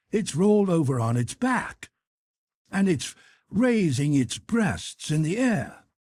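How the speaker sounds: a sailor thrilled at what he sees; excited harpooner. Acted. Ned Land excited by sighting.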